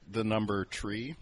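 "tree" said for three, with a T R; slow "number tree" with tr for th; Yooper teacher tree. Retold or imitated. Imitating her Yooper teacher who says "tree" for three, slowly. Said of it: "T R instead of T H".

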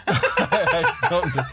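barely gets it out laughing; giggling helplessly; laughing hard. Real, not acted. Cracking up at the joke.

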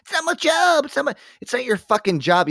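loud, high mimicking of an excuse; mock indignant shout. Host mocking a shopper's excuse about the job, shouted indignantly. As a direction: throw the excuse back, yelling high.

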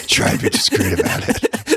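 breathy hushed aside; stage whisper. Retold or imitated. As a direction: whisper it like a secret. Joking about discreet price hikes.

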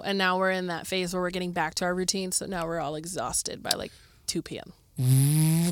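hoarse, fading voice; a voice that's wearing out; losing voice. Real, not acted. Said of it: "I'm losing my voice already".

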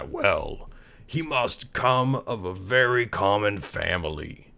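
slow, dignified, pompous groundhog; slow, pompous old groundhog. Acted. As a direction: speak with stuck-up dignity. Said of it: "said the groundhog".

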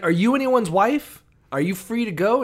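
high, loud, hammed-up pharaoh asking; mock pharaoh voice. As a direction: pitch it up like a smarmy king.

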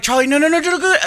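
very high, rising frantic no; desperate calling. Retold or imitated. Dad desperately calling Charlie away from the party room, very high. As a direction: plead with the kid to stop.

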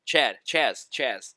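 loud, emphatic name call. Real, not acted. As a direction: blurt the name out loudly. Calling out a character's name.

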